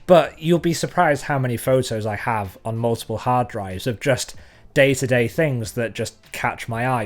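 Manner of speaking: ordinary talk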